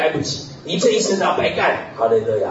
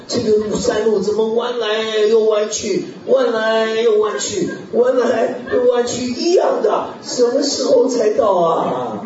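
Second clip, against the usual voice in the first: slow, higher whining with a laugh; mock weary complaint; 4 semitones higher than usual. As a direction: drag it out like a fed-up hiker. Weary hiker complains about winding path.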